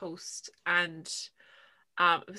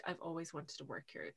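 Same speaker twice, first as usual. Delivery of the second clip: retold whisper; 2 semitones lower, 15 dB quieter than usual. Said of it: "she whispered".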